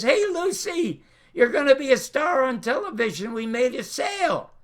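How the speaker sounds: imitating elation. CBS president calling the star with good news, elated. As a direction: call out the big news, elated. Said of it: "is stunned and elated and calls back".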